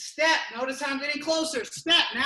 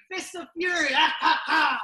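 laughing. Real, not acted. Coach laughing mid-combo.

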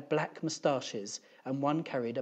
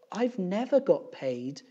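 high, slow, louder complaint; put-upon teacher, voice raised and drawn out; aggrieved teacher; 7 semitones higher, 5 dB louder than usual. A narrator's reading. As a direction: stretch out a teacher's grievance. Upset teacher complains to three men.

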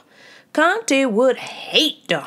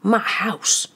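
ghost crying out. A narrator's reading. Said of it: "Fred cried".

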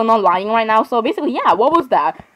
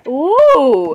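scream. Acted. Startled friend shrieking behind the locked door, screamed "ooh". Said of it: "you just screamed".

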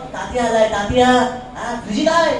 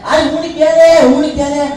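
higher-pitched, indignant comeback; indignant protest; 4 semitones higher, 4 dB louder than usual. Acted. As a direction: protest as if wrongly accused. Protests when questioned about bargaining.

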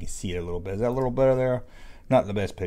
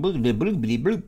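mock droid bloops; 3 semitones higher than usual. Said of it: "R two saying".

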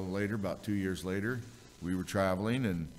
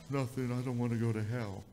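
put-on crying child's voice; 3 semitones higher than usual. Crying son tells his dad why he is upset, child's voice.

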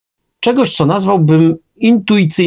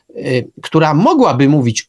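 ordinary talk, nothing marked

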